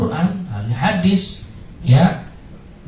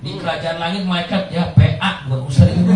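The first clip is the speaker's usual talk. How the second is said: chuckling through a teasing correction; amused, half-laughing aside; 4 semitones higher than usual. Real, not acted. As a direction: laugh while setting the record straight.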